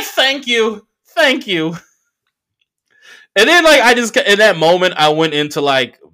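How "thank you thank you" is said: excited thanks. Retold or imitated. Thanking Zing for his line.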